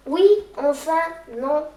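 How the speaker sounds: flustered outburst. Acted. Child corrects himself, flustered.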